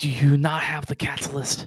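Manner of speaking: frantic, freaking out, pressing in hard, almost aggressive. A confused character presses the listener, almost aggressive and freaking out. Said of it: "coming at you like almost aggressively".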